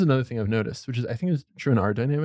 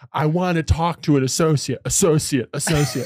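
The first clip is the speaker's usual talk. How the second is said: slow, raised-voice demand, lightly mocked; imitated yelling dad; 3 semitones higher, 4 dB louder, slower than usual. Dad demanding help from the phone tree, mildly yelled. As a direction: repeat it insistently at a phone robot, a bit louder. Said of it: "he yells at them".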